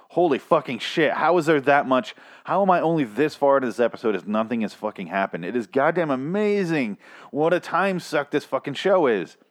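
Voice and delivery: hammed-up exasperation, pitch jumping up; exasperated disbelief. Viewer seeing seventeen minutes left of the episode, exasperated disbelief. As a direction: rant in mock amazement, stretching out the last complaint.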